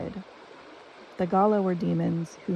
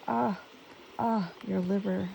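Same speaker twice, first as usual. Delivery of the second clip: sighing; 2 semitones higher, 4 dB quieter than usual. A narrator's reading. Creatures sigh along with the queen, mildly sighing. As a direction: echo a sigh, settling back down. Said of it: "They sighed".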